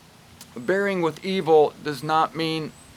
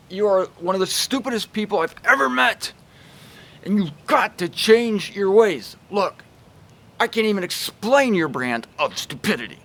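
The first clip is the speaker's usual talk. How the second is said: mock angry tirade, a little higher; aggressive cruel rebuke; 3 semitones higher than usual. Shown as a demonstration. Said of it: "This is called, uh, aggressively and cruelly hitting someone".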